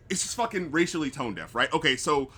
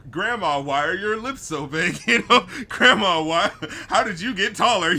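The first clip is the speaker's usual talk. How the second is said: laughing through the quote; 3 semitones higher, 5 dB louder than usual. Retold or imitated. Laughing while quoting movie gag.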